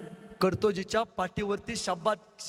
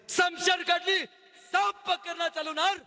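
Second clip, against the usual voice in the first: climactic high cry; 6 semitones higher than usual. A narrator's reading. Climactic sword moment.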